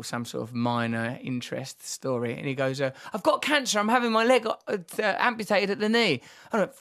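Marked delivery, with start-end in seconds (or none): 3.1-6.2 higher, lightly voiced friend; quoting his friend. Friend telling Ross about his cancer, lightly voiced higher. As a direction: voice Pete's news, a touch higher.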